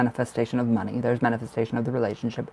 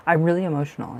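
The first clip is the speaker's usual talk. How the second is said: breathy laughing half-whisper, quicker; 5 semitones higher, faster than usual. Real, not acted. Reader to her viewer, moved, laughing under her breath. Tearing up during a tarot reading.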